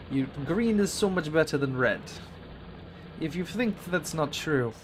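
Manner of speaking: a lightly hammed Russian villain accent insisting; bad guy Russian accent. Streamer insisting to viewers in a mock Russian villain accent. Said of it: "decided for a bad guy Russian accent".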